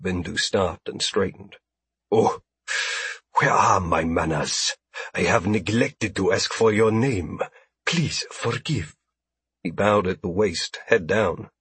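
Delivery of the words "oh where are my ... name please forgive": smooth-talking alien merchant; ingratiating alien trader. A narrator's reading. Alien apologizes, bowing.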